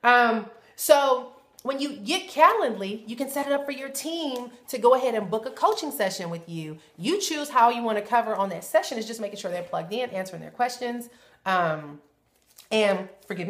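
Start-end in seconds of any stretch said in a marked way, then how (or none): 0.0-11.1 talking with gum in mouth; words around chewing gum. Real, not acted. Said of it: "get this gum out my mouth".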